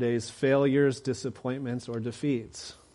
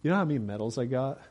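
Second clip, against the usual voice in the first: bragging runner; 3 semitones higher, faster than usual. Retold or imitated. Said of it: "he's saying".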